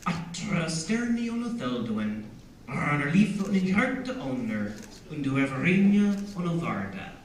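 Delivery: gently lilting Elvish recitation; measured Elvish with rolled R's. Shown as a demonstration. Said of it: "it has a nice lilting quality".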